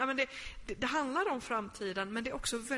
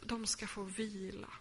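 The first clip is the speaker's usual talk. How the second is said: proclaiming; 6 dB quieter than usual. Acted. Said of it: "anden bara ropar ut".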